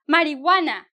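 Marijuana said mari-WA-na, no h; silent h. Shown as a demonstration. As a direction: skip the h in Marijuana. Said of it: "you don't really pronounce the H".

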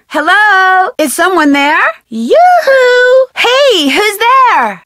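loud, high call into the dark. Acted. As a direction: call out to whoever might be hiding. Calling out to unseen someone.

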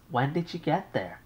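an anxious mother on the line. Acted.

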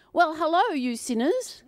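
teasing what Paul never said; mock greeting. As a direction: play the absurd greeting.

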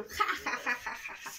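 mock taunting laugh; playful jeering ha ha; mocking laughter. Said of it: "gente que se reía".

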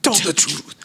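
a bad Nigerian accent; Nigerian accent imitation. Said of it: "Our terrible Nigerian, um, accents".

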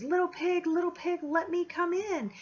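hammed-up storybook wolf; big bad wolf. Teacher voicing the wolf to her class at the door. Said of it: "And he yells and he goes".

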